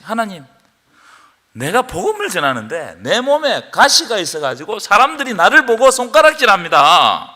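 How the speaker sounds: 바울이 애원하듯 간절한 기도; 몸의 가시를 빼달라 애원하는 톤으로. Acted. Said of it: "간절하게 기도했어요". (가시를 거둬달라 비는 바울의 간절한 기도)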